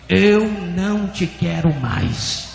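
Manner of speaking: slow, firm, drawn-out declaration; stronger voice of God. Retold or imitated. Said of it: "E a voz repetiu mais forte".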